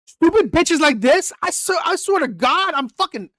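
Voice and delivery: angry rant. Real, not acted. Scene: reacting to a clip of a woman, fuming outburst. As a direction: let the anger spill over at her.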